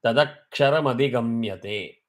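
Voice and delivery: tadaksharam adigamyate recited as one linked phrase; three words joined. Shown as a demonstration. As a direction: link tadaksharam adigamyate through the m, without a break. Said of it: "when all the three words are combined".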